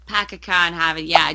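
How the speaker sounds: quick try at a Boston accent; tentative Boston accent demo. Shown as a demonstration. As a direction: attempt Boston vowels, dropping the Rs. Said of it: "how about Boston?".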